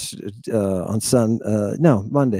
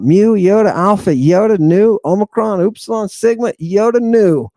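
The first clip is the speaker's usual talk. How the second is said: spelled out; 4 semitones higher, 3 dB louder than usual. Shown as a demonstration. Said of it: "spell that out".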